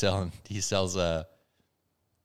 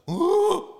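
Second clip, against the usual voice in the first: panicked yelp; 4 dB louder than usual. Retold or imitated. Pilot panics, pulls eject.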